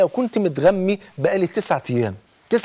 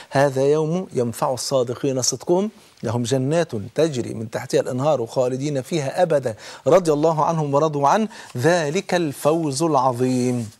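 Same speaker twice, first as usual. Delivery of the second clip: Quran recitation; 2 semitones lower than usual. Acted. Reciting Quranic verse in sermon.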